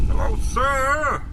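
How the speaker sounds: lightly voiced Bane, menacing villain playing a horror game; a hint of Bane's masked menace; Bane impression. Gamer voicing Bane while wandering the woods, lightly menacing. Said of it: "Calm down, Bane".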